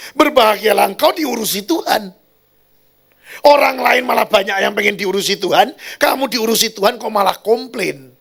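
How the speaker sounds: loud, high exasperated rebuke; retold scolding. Pastor retells rebuking a complaining woman, loud exasperated scolding. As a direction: scold her in disbelief, voice pushed up.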